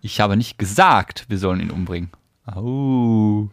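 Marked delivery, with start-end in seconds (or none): 0.0-2.1 "gesagt" hit hard; weight on "gesagt"; stress on GESAGT. Shown as a demonstration. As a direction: lean on "gesagt". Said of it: "betonst du das Wort?".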